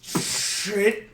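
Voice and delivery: breathy whispered shit; whispered curse. Acted. Goblin noticing the broken glasses, whispered curse. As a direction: mutter it under your breath. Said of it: "He looks at the broken pot".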